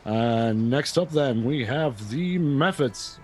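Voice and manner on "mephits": "Mephits" with a short e, MEF-its. Shown as a demonstration. Host announces the next monsters, "Mephits" said MEF-its. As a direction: say "Mephits" as MEF-its, stress first. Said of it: "not sure how you pronounce it".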